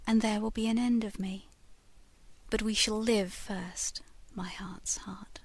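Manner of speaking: hushed, breathy ghost woman confiding her fate; ghostly lady whispering. Acted. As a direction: whisper it like a spirit from a picture frame. Lady's whispered promise.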